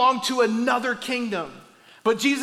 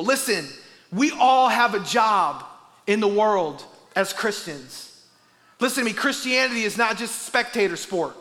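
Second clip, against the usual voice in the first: preaching. Acted. Exhorts the congregation.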